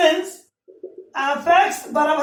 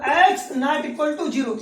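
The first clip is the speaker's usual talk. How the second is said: each word spaced out slowly; slow dictation; much slower than usual. Shown as a demonstration. Teacher dictating the condition slowly to students. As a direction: read the condition out slowly for the class to copy.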